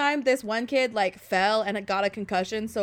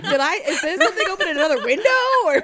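fast alarmed; 6 semitones higher, 5 dB louder, faster than usual. Retold or imitated. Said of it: "I was like".

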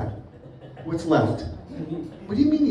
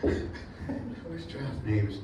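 accidental British accent; 8 semitones lower, 10 dB quieter, much slower than usual. Real, not acted. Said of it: "I don't know why I'm British tonight".

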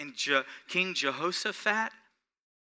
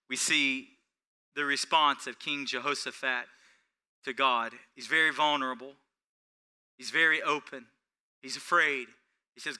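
normal talking voice

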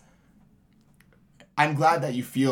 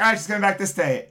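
excited; 5 semitones higher, faster than usual. Retold or imitated. Excited plan quoted.

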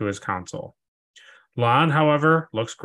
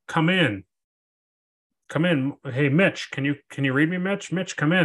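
higher voice hailing over radio; radio call; 5 semitones higher than usual. Retold or imitated. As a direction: call a missing crewman on the radio. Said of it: "they're like".

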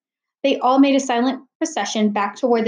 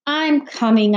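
reluctant call; 4 semitones higher, slower than usual. Acted. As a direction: answer mom reluctantly, calling it out. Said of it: "Natalie grumbled".

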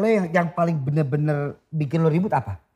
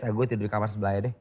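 fed-up brush-off; 5 semitones lower, 6 dB quieter, faster than usual. Retold or imitated. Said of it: "malah digas".

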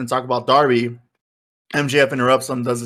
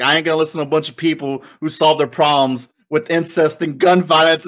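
mocking heel voice; 2 semitones higher than usual. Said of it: "It's like".

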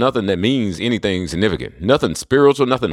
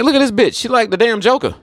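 pitched-up sneering exclamation; mocking disbelief; 11 semitones higher than usual. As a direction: squeal it out in scornful disbelief. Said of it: "I'm like".

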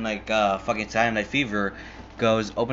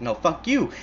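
higher-pitched mock comeback; retold angry retort; 7 semitones higher than usual. Movie characters trading insults, mock angry retort. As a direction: fire it back in an argument.

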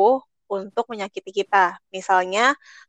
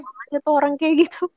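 disgusted; 6 semitones higher, faster than usual. Real, not acted. Disgusted verdict on the ex.

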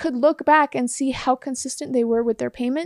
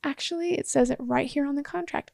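calm reply; 7 dB quieter than usual. Retold or imitated. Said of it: "And I was just like".

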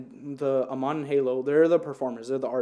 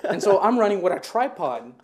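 laughing; 5 semitones higher, 6 dB louder than usual. Real, not acted. Laughing while retelling the chase.

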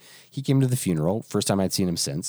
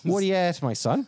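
high mock Newfoundland greeting; 7 semitones higher than usual. Shown as a demonstration. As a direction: sing out What are you at, my son up high. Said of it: "you didn't say it that way".

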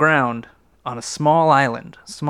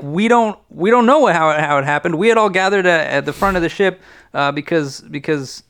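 agitated passengers; 5 semitones higher than usual. Acted. Passengers telling what happened.

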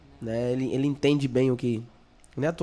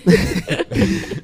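loud burst of laughter; 10 semitones higher, 7 dB louder than usual. Real, not acted. Laughing at nickname.

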